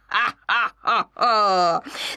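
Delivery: a wild, wailing hyena cackle; a shrieking animal laugh. Acted. Hyena shows her cackle.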